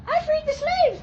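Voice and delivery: very high squeaky puppy proclamation; puppy Lincoln. Pretend. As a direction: declare it like a tiny dog president.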